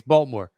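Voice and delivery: "Baltimore" run together as "Boltmore"; local pronunciation of Baltimore. Shown as a demonstration. Local confirming how "Baltimore" is said here, as "Boltmore". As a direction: give "Baltimore" in two syllables, the local way. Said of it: "Now we say it like this here".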